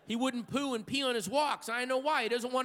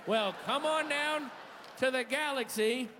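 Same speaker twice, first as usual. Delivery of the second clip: mock ad announcer; 4 semitones higher than usual. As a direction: sell the crappy theater like a cheesy ad. Mock announcer pitch for theater.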